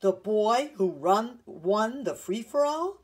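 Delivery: loud, slow, swelling exultation; excited cry. A narrator's reading. Grandfather realising the runner is his grandson, excited cry. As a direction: proclaim it with mounting amazement, stretching the words. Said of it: "cried the man".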